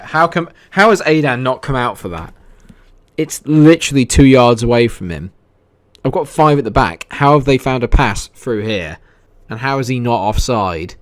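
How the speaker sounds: real fury at the defending; angry outburst. Real, not acted. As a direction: shout at the screen in disbelief. Goals conceded in his game.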